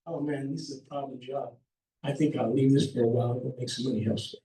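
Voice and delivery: low, quick, offhand mumble; a lightly voiced shrugging contractor; lazy contractor voice.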